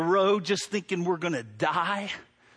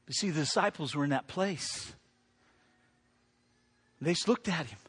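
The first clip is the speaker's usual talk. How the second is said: sudden hush; 3 semitones lower, 6 dB quieter than usual. Real, not acted. Preacher drops after shouting.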